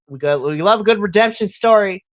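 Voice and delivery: loud, happy outburst; excited. Retold or imitated. Fan celebrating a redemption story, loud cheering. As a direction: cheer for the comeback. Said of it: "I was just like".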